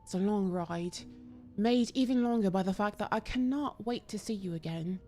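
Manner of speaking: a hint of a put-on British accent, slow and level; bad British accent. Shown as a demonstration. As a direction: read the letter in a mild, clumsy English accent. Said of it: "That was terrible".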